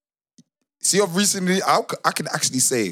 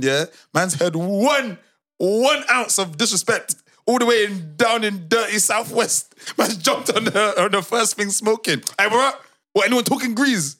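teasing hype-man rant; 7 semitones higher than usual. Retold or imitated. Mocking friend's hair-trigger temper.

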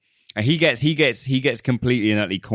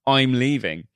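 higher, sneering brush-off; dismissive Scott voice; 6 semitones higher than usual. Retold or imitated. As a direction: shrug her off like she's nothing.

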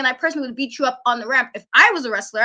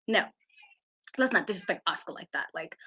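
weary sigh; 8 semitones lower, 10 dB quieter than usual. Real, not acted. Weary sigh after rant.

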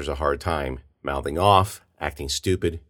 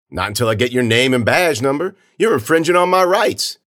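raised voice climbing into loud indignation; defiant kid; 7 semitones higher, 5 dB louder than usual. Acted. Filming kid refusing the officer's order, defiant. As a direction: argue back, getting higher and louder.

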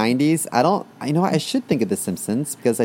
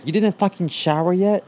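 higher, nagging mother voice; scolding mom; 6 semitones higher than usual. Retold or imitated. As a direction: play the mom yelling at her kid. Mom scolding kid over TV.

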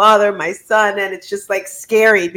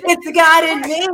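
playful echo; 5 semitones higher than usual. Real, not acted. Host echoes guest playfully.

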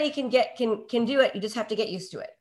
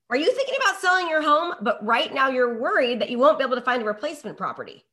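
hook demo. Shown as a demonstration. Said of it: "understand what I did there".

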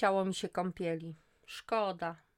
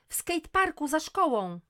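much higher, loud shout; 11 semitones higher, 10 dB louder than usual. Acted. Daughter shouts where brother is. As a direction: call out the place urgently.

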